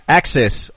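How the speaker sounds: "axis" slowly, weight on the second syllable; second-syllable stress. Shown as a demonstration. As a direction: lean on the end of "axis". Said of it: "I'm emphasizing the second syllable".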